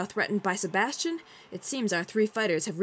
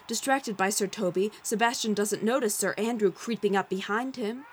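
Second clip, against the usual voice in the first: excited ringside announcer; fight commentary. A narrator's reading. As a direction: call the round like a boxing match. Narrator play-by-play.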